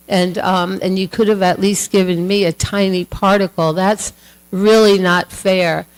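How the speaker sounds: mock-indignant wife, cooling as she argues; heated and angry. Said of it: "she was so heated up and angry".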